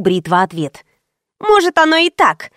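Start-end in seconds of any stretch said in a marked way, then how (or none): 1.4-2.5 snide drawl. A narrator's reading. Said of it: "ехидно протянула Кристи".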